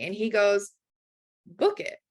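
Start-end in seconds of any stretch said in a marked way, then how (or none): 1.5-2.0 sudden high push to book; urging friend. Retold or imitated. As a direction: egg her on, pitched up. Friend urging booking ticket.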